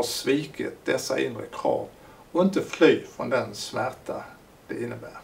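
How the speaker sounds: measured, emphatic reading of a written thesis; formal reading aloud. Acted. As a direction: read it out deliberately, phrase by phrase. (högtidlig högläsning)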